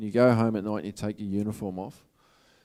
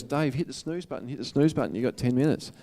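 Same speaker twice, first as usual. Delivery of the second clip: the little inner voice, pitched higher and coaxing; tempting inner voice; 4 semitones higher than usual. Retold or imitated. Speaker voices his inner voice when the alarm rings, higher and coaxing. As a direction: coax yourself back to sleep in a higher voice. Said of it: "Little voice".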